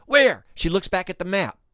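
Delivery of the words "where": quick eager high-pitched question; excited. Retold or imitated. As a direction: she asks eagerly, keen to learn. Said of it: "She's excited".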